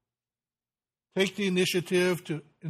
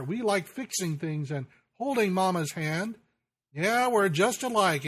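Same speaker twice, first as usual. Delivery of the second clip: put-on lightly raised, higher boyish voice; little boy's voice; 3 semitones higher than usual. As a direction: voice the proud little son looking up to dad. Son's words repeated in poem.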